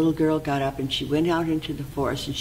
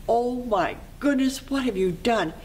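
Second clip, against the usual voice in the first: put-on aghast little girl; 8 semitones higher than usual. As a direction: draw out the shock, pitched high. Girl sees porridge everywhere.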